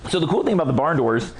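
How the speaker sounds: hoarse, losing voice. Real, not acted. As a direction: talk through a hoarse throat. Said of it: "as I'm losing my voice".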